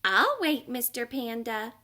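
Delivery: high, friendly penguin voice at normal strength; calm, content to wait; patient penguin. Acted. Penguin tells the panda he will wait, calm and friendly.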